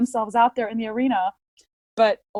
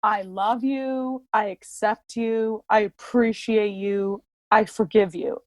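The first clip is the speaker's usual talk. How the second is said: slow affirmation; slower than usual. Shown as a demonstration. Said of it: "You imagine them saying".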